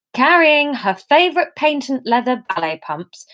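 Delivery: steady storytelling read-aloud voice; story narration. A narrator's reading. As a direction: read the chapter to your listeners. Reads her novel chapter aloud.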